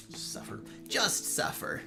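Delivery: breathy whisper. Pretend. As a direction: whisper it in defeat. Unvoiced resigned mutter.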